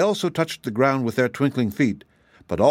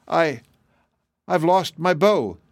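high, drawn-out storybook wail; halting, plaintive lament; 7 semitones higher, slower than usual. A narrator's reading. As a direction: wail it slowly, high-pitched. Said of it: "wailed Polychrome".

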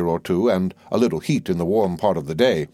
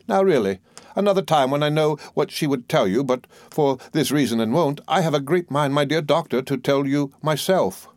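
a hint of a fussy, self-important old lady, pitched higher; lightly voiced old mother-in-law; 6 semitones higher than usual. The old soldier pressing her point on the doctor, lightly voiced. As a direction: play the bossy mother holding forth, higher.

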